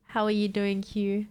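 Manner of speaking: congested, stuffy voice; blocked nose. Real, not acted. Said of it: "you sound like you have bungs up your nose".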